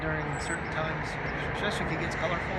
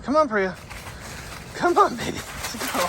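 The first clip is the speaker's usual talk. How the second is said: high, loud, rising call, sweet-talking a pet; coaxing the dog; 8 semitones higher, 4 dB louder than usual. Real, not acted. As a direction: owner coaxes Priya to follow, high and loud. Coaxing Priya to come.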